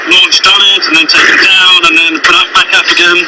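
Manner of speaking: muffled behind a gas mask; through a gas mask. Real, not acted. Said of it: "I'm now wearing a gas mask".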